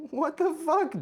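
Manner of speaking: startled. Real, not acted. Streamer caught off guard by a sudden surprise, yelping high. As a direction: jump at the surprise.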